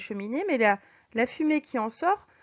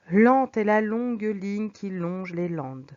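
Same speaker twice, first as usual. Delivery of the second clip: slow, "Lente" and "longue" drawn out on the L; slow languid reading; 4 dB louder, slower than usual. Shown as a demonstration. Teacher reads slowly to show languor. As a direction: stretch the L words lazily. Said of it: "langueur, de lenteur".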